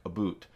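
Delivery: ABOUT turned into "a boot"; mock Canadian pronunciation. Shown as a demonstration. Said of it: "never hear Canadians say anything like".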